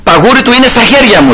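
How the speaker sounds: high-pitched mock call, no real shout; retold calling out. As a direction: imitate a challenge called from a distance. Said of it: "άρχισε να φωνάζει ο Δαβίδ". (σαν να φωνάζει από μακριά, ψηλά)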